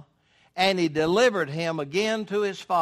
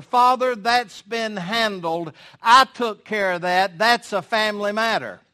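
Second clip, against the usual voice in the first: voicing Jesus; 4 semitones higher, 7 dB louder than usual. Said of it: "Jesus can say to the Father".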